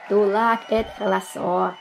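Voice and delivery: put-on slow, babyish mispronunciation; childish little boy. Small boy agrees about fools, childish. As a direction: chime in slowly, r turned to l.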